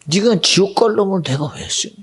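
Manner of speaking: God's rebuke pressed harder. Retold or imitated. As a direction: firmer repeated rebuke. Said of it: "마음에 감동이 돼".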